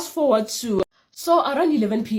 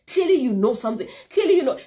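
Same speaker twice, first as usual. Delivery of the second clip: laughing; 5 semitones higher, 4 dB louder, faster than usual. Real, not acted. Laughing accusation.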